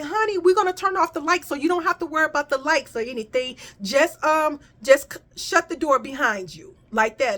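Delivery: a hint of a friendly colleague rattling off; sweet coworker voice. Coworkers' voice mimicked.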